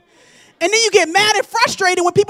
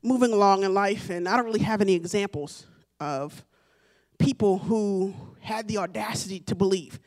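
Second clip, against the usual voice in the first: doubting congregant; 7 semitones lower, 7 dB quieter than usual. Retold or imitated. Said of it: "you may say to yourself".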